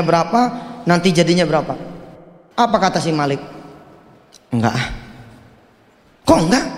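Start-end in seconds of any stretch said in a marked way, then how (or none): 4.5-4.9 bored lazy no; lazy refusal. Acted. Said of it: "lagi males nih". 6.3-6.7 higher, puzzled "Kok enggak?"; startled question; surprised. Acted. Friend surprised at refusal.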